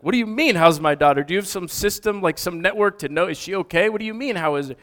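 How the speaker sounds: acted-out confused, anxious dad; baffled alarm. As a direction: fire off worried questions in disbelief. Baffled father questions stranger about daughter.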